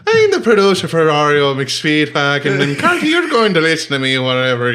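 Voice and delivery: light Irish lilt, boastful and laughing; a hint of a cocky Irish record producer; mock Irish accent, half laughing. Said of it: "My name's Seamus O'Shaughnessy".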